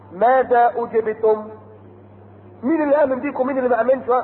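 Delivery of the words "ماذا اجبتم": Quran recitation. Acted. Preacher reciting the verse of the gathered messengers, chanted. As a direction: intone like a reciter.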